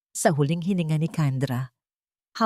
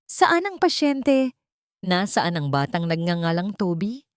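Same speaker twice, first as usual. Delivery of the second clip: authoritative. Acted. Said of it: "Ang boses ng lalaki ay malakas, puno ng awtoridad".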